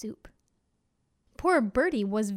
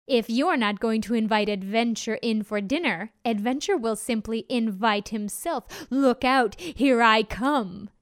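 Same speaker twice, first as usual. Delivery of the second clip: wolf threat; 3 dB louder than usual. Acted. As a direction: threaten with gleeful menace.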